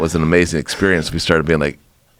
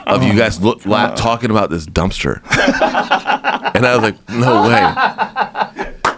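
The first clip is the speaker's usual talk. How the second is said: laughing; 4 semitones higher, slower than usual. Real, not acted.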